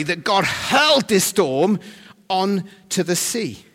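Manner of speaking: lightly imitated Scottish accent, loud and deliberate; Gary Brown. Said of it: "we need to read this like Gary".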